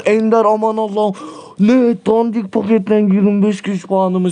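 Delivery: shocked by the reward; surprised exclaim. Real, not acted. Opening a box of rewards.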